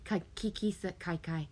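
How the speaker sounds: slurred, tripping on the name; slurring. Real, not acted. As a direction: slur the words. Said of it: "my slurring is like".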